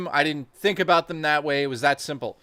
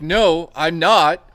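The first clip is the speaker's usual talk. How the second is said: firm refusal; 6 dB louder, much slower than usual. Retold or imitated. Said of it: "I said it like that, legitimately".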